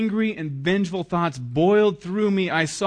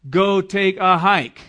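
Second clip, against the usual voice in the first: loud, slow rude brush-off; hammed-up snub of an apology; mock dismissive retort; 4 semitones higher, 8 dB louder, slower than usual. Preacher shows the wrong reply to an apology, mock rude. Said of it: "You don't say".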